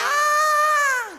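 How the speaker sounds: high, far mock scream of fright; terrified scream. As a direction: cry out like frightened disciples. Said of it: "They are screaming". (sumigaw sa takot, pakunwari)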